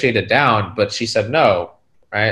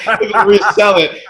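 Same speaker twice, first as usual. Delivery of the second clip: high, loud laughing through words; 10 semitones higher, 6 dB louder, slower than usual. Real, not acted. Realizing he must close and resell, laughing high.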